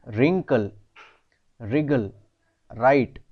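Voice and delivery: रिंकल, रिगल, राइट with no W sound, starting on R; silent W. Shown as a demonstration. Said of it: "W pronunciation में नहीं है". (रिंकल, रिगल, राइट में W silent)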